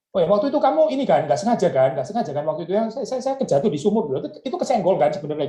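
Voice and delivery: high, quick, sing-song excuse-making; mock self-comforting Joseph. Preacher playing Joseph brushing off the brothers' crime. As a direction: talk yourself into it being an accident. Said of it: "Yusuf nggak bilang kalimat seperti like".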